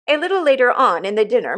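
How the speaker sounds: ordinary delivery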